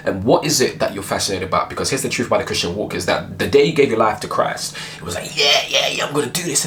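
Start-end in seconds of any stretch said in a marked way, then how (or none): 5.4-6.6 higher-pitched eager new convert; mock eagerness. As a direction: imitate someone keen to begin. Acted eager new convert's resolve.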